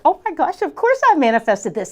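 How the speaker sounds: high gasped-out "oh my gosh", then settling; excited. Retold or imitated. Coach reacting to a surprise voicemail, excited. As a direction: relive the thrill of good news. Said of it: "And so I'm all excited".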